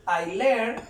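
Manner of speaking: spaced-out English dictation; word-by-word model. Shown as a demonstration. Teacher reading an English example to listeners, word by word. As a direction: say it word by word with long pauses.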